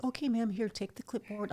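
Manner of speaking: high, breezy mock receptionist. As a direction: imitate a brush-off at the front desk. Mimics dismissive ER receptionist.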